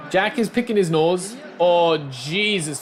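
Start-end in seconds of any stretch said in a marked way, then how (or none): 1.6-2.8 slow exasperated sigh. Real, not acted. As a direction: drag it out, fed up. Exasperated at teammate.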